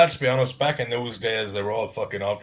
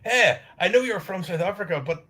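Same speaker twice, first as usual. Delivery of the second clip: mock compliment; 8 semitones higher than usual. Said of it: "Mister Peabody's compliment at the guy".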